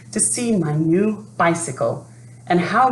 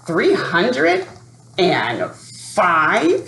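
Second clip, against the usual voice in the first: muttered; much slower than usual. Acted. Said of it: "he muttered".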